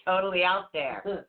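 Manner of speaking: real laughter running into slow talk; amused, stretched out by laughing. Real, not acted. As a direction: laugh through the words, slowly. Laughing at own group's oddness.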